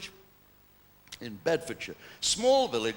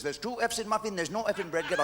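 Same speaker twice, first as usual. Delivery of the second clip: shopkeeper quote; 3 semitones higher than usual. Retold or imitated. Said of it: "He says".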